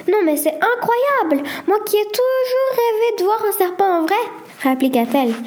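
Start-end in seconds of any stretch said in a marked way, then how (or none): 0.1-4.2 high, delighted exclamation; thrilled. Acted. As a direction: gush over a dream come true. Girl thrilled to see snake.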